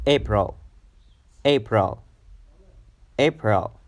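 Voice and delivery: April with a short, quick "pril"; AY-pril, ending cut short; quick second syllable. Shown as a demonstration. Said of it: "you should pronounce it very quickly".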